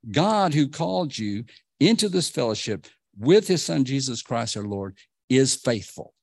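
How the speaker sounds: lifted pulpit reading of the epistle; scripture reading. Acted. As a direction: read it out like the apostle's letter, slowing on key phrases. Reads scripture aloud in sermon.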